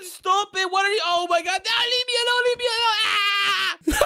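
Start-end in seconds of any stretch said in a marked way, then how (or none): 1.6-4.1 pleading then screaming; scared. Real, not acted. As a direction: cry out in fright. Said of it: "he screamed again".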